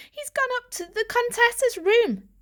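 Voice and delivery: a hint of a stern father; lightly voiced father. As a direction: explain it away as a father. Father explaining dismissively.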